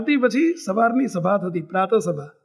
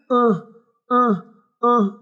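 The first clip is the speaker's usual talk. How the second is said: demonstrated moaning; much slower than usual. Shown as a demonstration. Preacher showing listeners how the sick monk moaned, imitated groaning. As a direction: imitate a sick man's brief moans. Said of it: "કણસ્યા કહેવાય".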